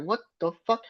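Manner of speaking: mock outraged Cody; imitating Cody. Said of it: "he's just like".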